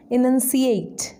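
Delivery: slow clear word. Shown as a demonstration. Trainer introducing enunciate to students, slow and clear. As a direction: enunciate said slowly, each syllable clear. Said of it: "enunciate means say clearly".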